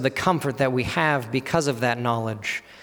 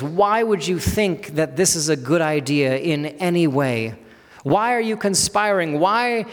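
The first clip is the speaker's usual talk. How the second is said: incredulous, emphatic questioning; appalled rhetorical questions, moderately raised pitch; shocked disbelief; 3 semitones higher than usual. Acted. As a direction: challenge them as if stunned by their folly. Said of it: "them being in complete shock".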